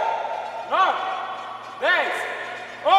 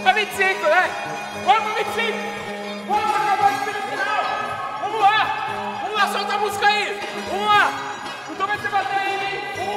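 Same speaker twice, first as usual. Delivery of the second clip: energetic coach cheering; hyping up; 5 semitones higher than usual. Real, not acted. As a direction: pump them up, higher. Cheering on the workout.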